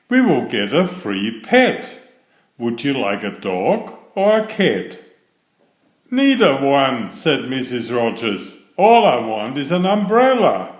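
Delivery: put-on lively read-aloud for children; animated storybook reading; story narration. A narrator's reading. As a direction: read the picture book with bouncy expression. Reads picture book aloud.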